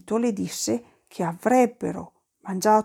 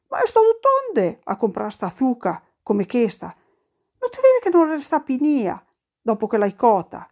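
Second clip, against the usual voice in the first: scolding; 3 semitones higher than usual. Acted. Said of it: "lo sgridò".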